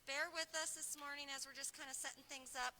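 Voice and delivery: muffled by a face mask; talking through a cloth mask. Real, not acted. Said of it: "making sure you can hear me through this mask".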